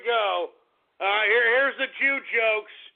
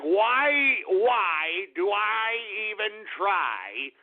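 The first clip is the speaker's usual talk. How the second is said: mock despair; much slower than usual. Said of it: "That's why sometimes I'm like".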